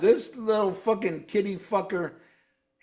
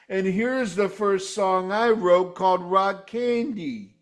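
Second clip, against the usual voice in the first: mock singer. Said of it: "He's like".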